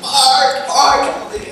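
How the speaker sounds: panicked call of Mark's name; retold yell for help. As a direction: call out to a friend from the edge of a hole. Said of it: "I just yell to my buddy Mark".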